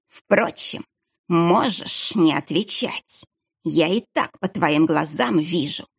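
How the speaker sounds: slow, sly hissing menace; hissing sinister monk. Acted. Monk presses the boy about the passage, slow and sly. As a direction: read his eyes and hiss it slowly.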